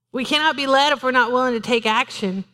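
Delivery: ordinary delivery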